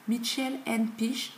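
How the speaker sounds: slow, show-off English accent; French speaker carefully putting on an English accent. Shown as a demonstration. Beauty vlogger reading an English brand name, showy English accent. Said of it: "mon accent anglais".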